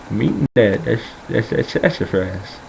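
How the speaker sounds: lightly imitated old Southern grandpa. Grandpa eating off a tree answers grandson, light Southern voice. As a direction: mimic an old man stumbling over his answer. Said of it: "this is how he talks".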